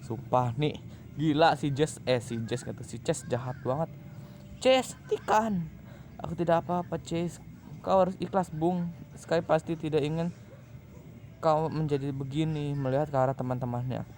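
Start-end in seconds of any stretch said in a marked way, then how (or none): 4.6-12.8 higher, pleading voice of a worried friend. Acted. Friend begging Chase to stop his rampage, high and pleading. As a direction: beg him to stop, gently but urgently.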